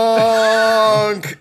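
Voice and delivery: high, loud drawn-out creature call; the Gronk announcing itself, high and loud; creature grunt. Acted. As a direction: let out a big creature cry. Creature sound.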